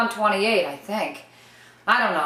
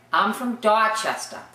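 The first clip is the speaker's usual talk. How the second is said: R-less Boston accent on Dorchester. Shown as a demonstration. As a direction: model a Boston accent for learners. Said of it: "learn from the way that I'm speaking".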